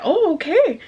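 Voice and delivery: high, swooping "oh, okay"; mock okay. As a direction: re-enact an exaggerated, singsong okay. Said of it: "that's how I did".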